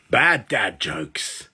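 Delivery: drawn-out deadpan title call; slow title announce. Acted. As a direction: announce it slowly and flat.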